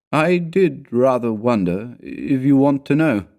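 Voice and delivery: slowly owning up to a doubt; slow, grave. A narrator's reading. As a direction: draw the words out gravely. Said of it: "he said slowly".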